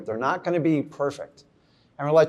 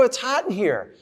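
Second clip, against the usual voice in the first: higher and louder, hammed-up protest about the heat; mock-indignant complaint; 7 semitones higher, 3 dB louder than usual. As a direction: whine about the heat half-jokingly. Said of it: "I go".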